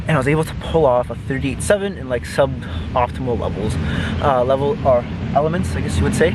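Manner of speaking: breathless after running; talking while catching his breath. Real, not acted. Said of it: "I'm still out of breath".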